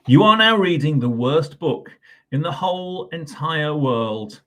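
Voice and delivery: loud, proclaiming storybook voice; reading the book's bold opening aloud; grand announcement. Acted. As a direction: announce it like a ringmaster. Book announces worst book.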